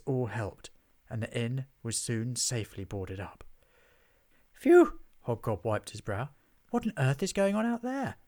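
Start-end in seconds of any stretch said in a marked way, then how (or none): 4.5-5.0 high, loud exhale of relief; relieved phew. A narrator's reading. Hobgob safe inside the inn, big relieved phew. Relief after reaching safety. 6.7-8.2 high-pitched baffled question; alarmed bewilderment. A narrator's reading. Hobgob asks about the explosions outside, high and baffled.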